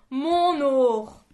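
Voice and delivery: loud anguished cry; choked with emotion. A narrator's reading. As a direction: choke on the words. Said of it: "Sa voix s'étranglait d'émotion".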